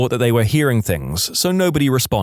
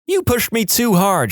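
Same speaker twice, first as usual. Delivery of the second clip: high-pitched mock yell, no real volume; narrated yell; 9 semitones higher than usual. A narrator's reading. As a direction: yell the accusation in a raised pitch.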